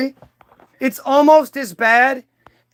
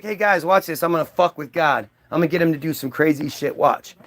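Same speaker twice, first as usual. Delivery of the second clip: scheming Satan; 6 semitones lower, 4 dB quieter, faster than usual. Retold or imitated. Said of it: "Satan was like".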